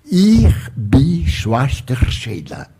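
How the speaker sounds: slow, deliberate German phrase; lightly voiced German speaker; German accent. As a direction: imitate a German-speaking nun slowly. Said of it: "ela disse assim".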